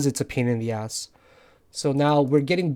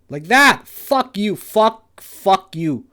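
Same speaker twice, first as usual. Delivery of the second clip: loud, higher bursts of swearing; angry cursing; 5 semitones higher, 4 dB louder, much slower than usual. Real, not acted. Trader cursing as the trade turns, angry outburst. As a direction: spit the curses out at the screen.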